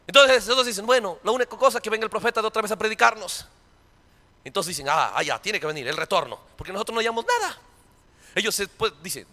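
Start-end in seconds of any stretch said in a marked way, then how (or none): 0.8-7.6 softer, hurried grumble; mock resigned believers. Preacher mocking waiting believers, soft and resigned. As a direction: toss it off like a lazy excuse.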